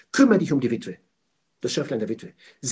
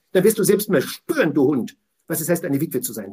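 threatening shout; 4 dB louder than usual. Real, not acted. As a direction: hurl it at the listener. Preacher threatens the oppressor. (laut drohend gepredigt)

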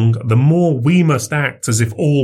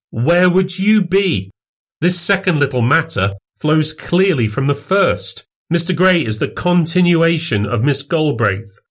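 a raised, much higher, scornful MacFarlane; mocking exclamation in a higher voice; crying out, higher; 8 semitones higher than usual. A narrator's reading. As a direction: wave his protest away with a sneer. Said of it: "cried Wolfe".

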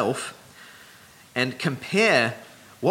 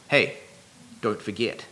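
attention-drawing reminder; 2 semitones lower than usual. Acted. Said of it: "drilling it into their heads twice".

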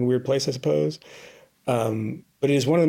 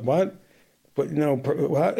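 mock baffled stammer, pitched up at the end; imitated confusion; 3 semitones higher, slower than usual. People stopped for papers with no idea, imitated confusion. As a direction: act out halting, questioning confusion. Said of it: "it's just this confusion".

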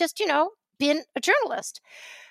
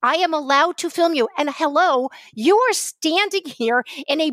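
heated; 4 semitones higher than usual. Real, not acted. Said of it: "I got a little hot and bothered".

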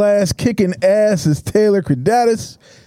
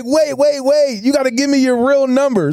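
higher, urgent pleading to the driver; begging to get her real number; pleading guy outside car; 6 semitones higher than usual. Retold or imitated. Guy at the car door begs for her number, high and urgent. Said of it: "And he's like".

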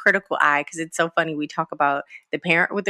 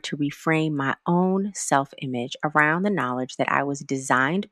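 prayer. Acted. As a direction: pray it sincerely, winding down to amen. Leads a prayer.

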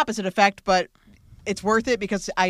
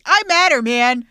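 higher, louder wounded plea; Spike pleading; 5 semitones higher, 9 dB louder, slower than usual. Retold or imitated. Spike protesting to the Scoobies, loud hurt plea. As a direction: insist you matter, hurt.

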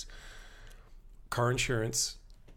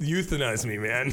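mock despair; 2 semitones higher, 5 dB louder than usual. Exasperated mock plea.

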